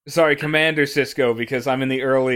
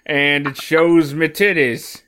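slow, drawled Amish-style accent, lightly put on; vaguely Amish accent; slower than usual. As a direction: stretch the words out in a hint of an Amish accent. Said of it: "my accent got vaguely Amish towards the end".

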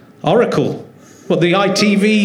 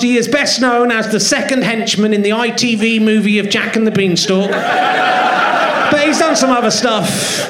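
raised-pitch live guest introduction, climbing at the name; stage announcer; 3 semitones higher than usual. Real, not acted. Podcast host bringing his guest on stage, announcer voice.

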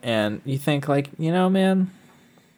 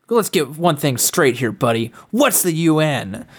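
quoting the son-in-law; 4 semitones higher, 3 dB louder than usual. Retold or imitated. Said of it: "He goes".

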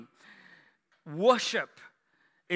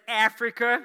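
put-on American accent; 2 semitones higher, 4 dB louder than usual. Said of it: "with that American accent".

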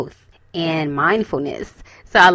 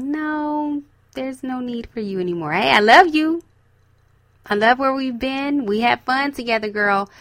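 higher, gently placating farewell; fond let-down; 5 semitones higher than usual. Acted. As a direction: let an old friend down kindly. Fond farewell to the past self.

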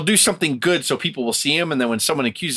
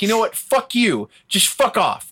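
much higher, mock snapping back; fed-up outburst; 8 semitones higher, slower than usual. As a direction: imitate someone finally losing it. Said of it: "when you're like".

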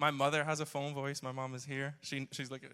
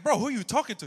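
incredulous question; 9 semitones higher, 10 dB louder, faster than usual. Retold or imitated. Stunned reaction to phone voice.

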